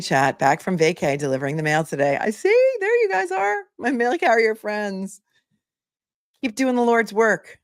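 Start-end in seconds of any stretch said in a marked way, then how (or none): 2.2-7.6 high, delighted hello; light up greeting friends; excited greeting. Real, not acted. Greeting mail carrier viewers.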